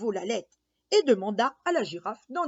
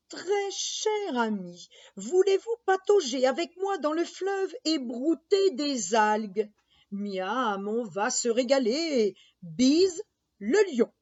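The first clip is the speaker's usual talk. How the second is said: hippo letter voice. Acted. Hippo's letter read aloud.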